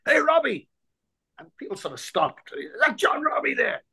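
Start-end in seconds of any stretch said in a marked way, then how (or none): 0.1-0.7 a much higher broad Dublin hail from the stand; broad Dublin accent. Retold or imitated. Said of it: "broad Dublin accent". 2.6-3.8 a much higher, breathy broad Dublin query; broad Dublin accent. Retold or imitated. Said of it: "broad Dublin accent".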